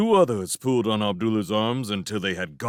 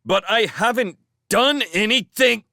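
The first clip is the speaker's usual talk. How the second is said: loud, high-pitched protest; indignant wail of protest; 12 semitones higher, 6 dB louder than usual. A narrator's reading. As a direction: protest your innocence, voice raised high. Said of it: "protested Abdullah".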